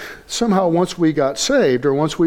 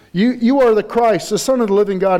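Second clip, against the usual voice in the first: emphatic confession; 5 semitones higher than usual. Acted. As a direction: declare it like bold Peter. Peter's emphatic confession acted.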